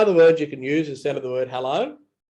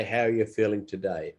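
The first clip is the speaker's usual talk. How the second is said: genuinely concerned; 4 semitones lower, 3 dB quieter than usual. Shown as a demonstration. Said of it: "if you are genuinely wanting to know".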